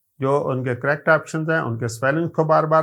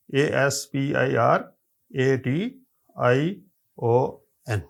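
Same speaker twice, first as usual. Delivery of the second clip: spelled letter by letter. Shown as a demonstration. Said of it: "یہی اس کا exact choice ہے".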